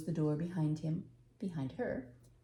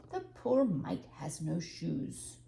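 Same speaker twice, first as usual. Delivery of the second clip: slow pitying; 3 semitones lower, slower than usual. Acted. Old man pities barefoot baby.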